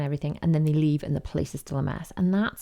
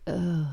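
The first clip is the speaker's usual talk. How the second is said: mock bored-teenager groan; acted sigh of teenage ennui. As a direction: groan as if too bored to bother. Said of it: "Ennui is just the bored teenager".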